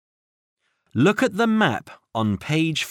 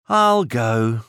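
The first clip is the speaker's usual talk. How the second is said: sighing; 3 dB louder than usual. Acted. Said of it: "said Cat with a sigh".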